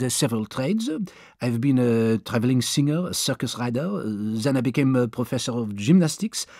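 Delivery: lightly voiced French manservant, polite; a hint of a deferential young Frenchman; French valet Passepartout. Valet answering his new master, lightly voiced polite Frenchman. Passepartout's long self-introduction.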